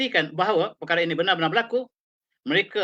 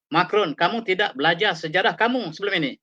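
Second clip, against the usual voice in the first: slightly raised, pressing rebuke on kamu; reproaching Macron; 3 semitones higher than usual. Retold or imitated. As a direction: press the charge home to Macron, stressing kamu. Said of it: "kata Erdogan".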